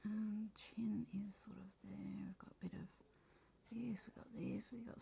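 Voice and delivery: soft whisper while concentrating; whispering to herself. Real, not acted. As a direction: breathe the words under your breath.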